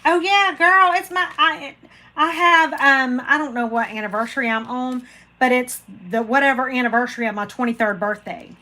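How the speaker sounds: a hint of a joking husband ribbing his wife; playful imitation of husband's tease; mock teasing husband. Husband teasing her about age.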